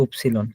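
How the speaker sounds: উপসিলন said as German Ypsilon, not English why; German letter name. Shown as a demonstration. Teacher contrasting উপসিলন with English ওয়াই. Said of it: "আমরা বলছি ওয়াই".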